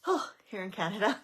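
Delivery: loud breath, then finish the intro. Real, not acted. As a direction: gasp and push out the last words. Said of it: "Can't get it all out in one breath".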